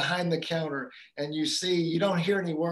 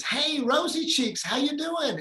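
cheery dad greeting; 10 semitones higher than usual. Retold or imitated. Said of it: "he says".

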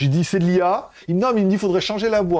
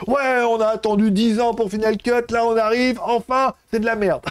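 higher-pitched imitation of moaning fans; mock outraged complaint; 5 semitones higher than usual. Host imitating fed-up users after a ten-year wait, mock outrage. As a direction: complain in a raised, hammed-up voice. Mimics complainers mocking Final Cut launch.

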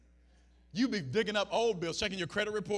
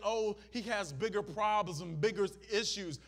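usual speaking voice

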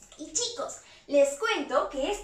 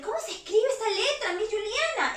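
imagined pupil; 5 semitones higher, faster than usual. Pretend. Voices pupils asking Miss Juliana.

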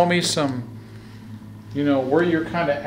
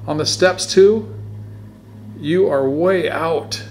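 louder, higher, fast pleading; eager calling out; 5 semitones higher, 7 dB louder than usual. Real, not acted. Investigator begging the spirit to show up, loud and high. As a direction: urge it on, almost begging.

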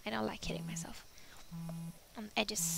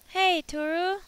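friend's voice; 8 semitones higher, 8 dB louder, slower than usual. Acted. Friend's voice on phone.

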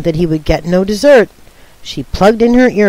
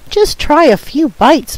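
pleading; 8 semitones higher than usual. Acted. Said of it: "pleaded Viola".

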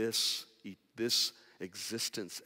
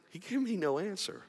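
"gave" lifted with a rising tune; emphatic statement; 8 semitones higher than usual. Acted. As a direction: lean on "gave", let it rise. Repeated line, first take.

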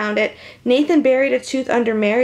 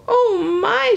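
whispered fright; 11 semitones higher than usual. A narrator's reading. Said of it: "she whispered".

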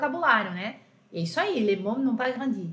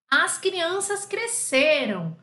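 slow model sentence; 4 semitones higher, much slower than usual. Shown as a demonstration. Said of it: "eu coloquei um sujeito mesmo".

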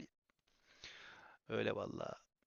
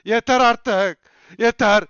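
nagging viewers; 4 semitones higher, 13 dB louder than usual. Retold or imitated. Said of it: "Her yayın beni darlıyorlar".

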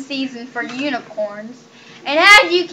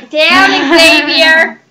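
drawn-out, louder sing-song command; sing-song scold; 6 dB louder, slower than usual. Real, not acted. Owner scolding the pony, slow sing-song command.

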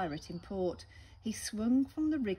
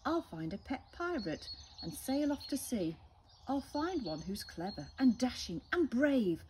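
squawking parrot; 4 semitones higher, 3 dB louder than usual. Acted. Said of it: "She squawked".

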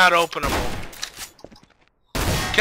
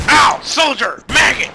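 drill sergeant yell; 4 semitones higher, 4 dB louder than usual. Pretend. Yelling drill sergeant insults.

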